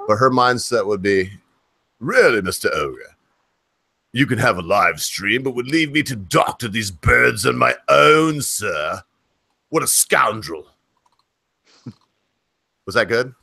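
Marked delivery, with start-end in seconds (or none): 2.0-10.7 playful mock British accent as the wife; a put-on British accent, a bit slow and prim; wife's imagined British scolding. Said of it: "That is all the British I got".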